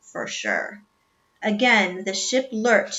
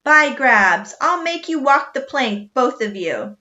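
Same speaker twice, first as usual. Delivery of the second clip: loud, booming captain threat; captain threatening both stowaways; angry threat; 4 semitones higher, 6 dB louder than usual. A narrator's reading. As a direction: threaten the plank.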